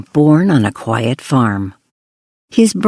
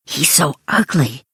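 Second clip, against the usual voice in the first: whispered; 5 dB quieter than usual. Acted. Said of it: "his neighbors whispered".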